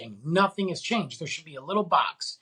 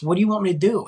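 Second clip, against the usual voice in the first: exasperated; 6 dB louder, much faster than usual. Real, not acted. Angry rant at school.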